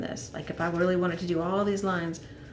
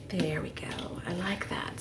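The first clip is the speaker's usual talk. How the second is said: soft voiceless whisper; 2 semitones lower, 6 dB quieter than usual. Real, not acted. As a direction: murmur it under your breath. Quiet work after whisper remark.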